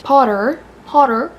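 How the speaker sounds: Potter in an American accent, r at the end. Shown as a demonstration. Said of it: "imagine saying that in an American accent".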